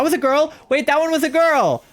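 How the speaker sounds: high-pitched excited disbelief; astonished outburst. Real, not acted. Player finds that one was a girl, astonished squeal. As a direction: blurt it high, suddenly realising your luck.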